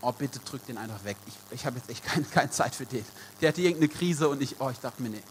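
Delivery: mildly put-upon, as if thinking aloud; reluctant inner thought. Retold or imitated. Preacher replays his first thought at a friend's call, reluctant muttering. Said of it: "mein erster Gedanke war".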